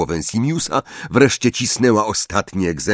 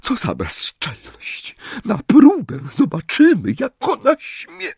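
muttered threats; 13 semitones higher than usual. A narrator's reading. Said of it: "mrucząc pod nosem coś".

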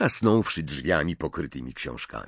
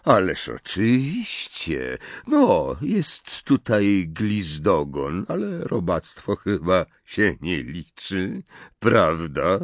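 mocking drawl; slower than usual. Snape mocks Wormtail.

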